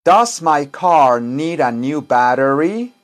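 very slow, rising question; each word clear, "Does" leading; slow model sentence. Shown as a demonstration. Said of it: "Repeat after me". (pregunta modelo muy lenta)

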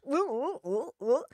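hooting "ooh" in mimicry; little mock oohs for a silly walk; mocking silly-walk noises.

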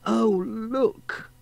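put-on high, bright little girl cry; child's exclamation. A narrator's reading.

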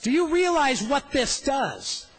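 high, loud, slowed Kermit imitation; Kermit's real loud voice. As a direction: boom it at him like Kermit did. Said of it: "he's real loud, too".

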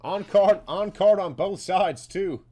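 loud, punched-out excitement; real burst of amazement; thrilled. Real, not acted. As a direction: exclaim over a rare find. Thrilled at rare card.

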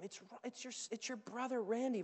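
soft, coaxing; gentle father. Acted. Father stepping outside to his angry son, gentle. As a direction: approach him softly.

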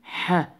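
ح said clearly as a throaty, breathed h; correct letter ح. Shown as a demonstration. Quran teacher models the letter, correct ح. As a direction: give ح its full throat sound. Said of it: "Don't say حبل".

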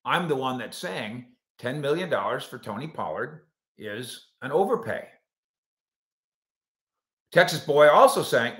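ordinary delivery

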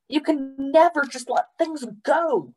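high, exasperated cry; shouted. A narrator's reading. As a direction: cry out in reproach, without full volume. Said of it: "Somkit shouted".

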